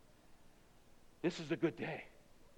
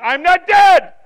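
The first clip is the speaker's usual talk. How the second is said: high, loud exclamation; sudden defiant realization; 9 semitones higher, 16 dB louder than usual. Acted. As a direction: burst out with sudden hope. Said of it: "all of a sudden he says".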